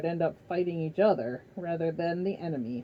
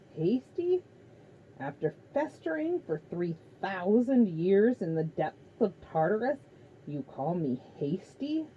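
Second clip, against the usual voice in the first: lightly voiced Titan, offended and cold; indignant Titan. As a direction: scorn his adviser's caution. Kronos rebukes Prometheus.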